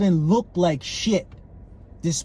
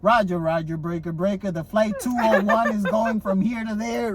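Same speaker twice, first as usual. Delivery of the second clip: mock clear announcer; 3 semitones higher than usual. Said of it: "he could just be saying it clear".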